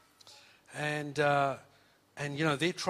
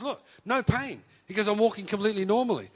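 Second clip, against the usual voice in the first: higher, louder, eager boast; excited show-off; 6 semitones higher, 6 dB louder than usual. Retold or imitated. Son shows his mum he walks without pain, excited. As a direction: prove it to her gleefully.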